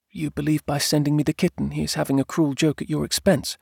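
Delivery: high, calm wife's voice. A narrator's reading. Wife questions husband about gift, calmly. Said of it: "Jane asked calmly".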